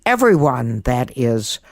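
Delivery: put-on gentle children's story narration; storytelling. A narrator's reading. Host reading her Halloween story to children, storytelling voice. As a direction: read it as if to children at bedtime.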